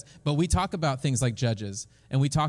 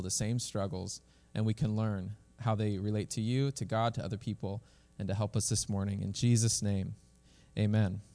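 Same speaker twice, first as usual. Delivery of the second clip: earnest, unhurried public prayer; spoken prayer. Real, not acted. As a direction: lead the room in prayer, a little subdued. Leads the congregation in prayer.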